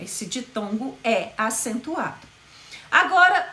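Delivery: ordinary talk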